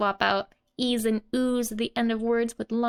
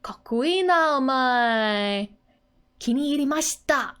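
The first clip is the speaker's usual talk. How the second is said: admiring declaration; 3 dB louder than usual. Retold or imitated. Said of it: "So Yotsuba continues".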